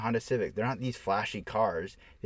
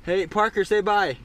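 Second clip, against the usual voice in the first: calling out; 10 semitones higher, 9 dB louder than usual. Real, not acted. Calling child to say bye.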